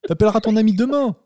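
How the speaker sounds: high, loud hammed-up yell; yelling at kid. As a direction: shout at the kid to hang up. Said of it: "Tu peux dire ce genre de phrase".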